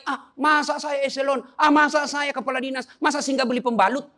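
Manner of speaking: proud official's scoff. Retold or imitated. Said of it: "Kadangkala ego naik".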